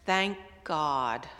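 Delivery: low, breathless relief; gasping for air. Retold or imitated. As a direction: sigh it out, out of breath. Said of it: "gasping for air".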